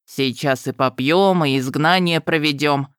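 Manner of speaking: lightly voiced brisk, cheerful elf. A narrator's reading. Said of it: "бодрым голосом пообещал".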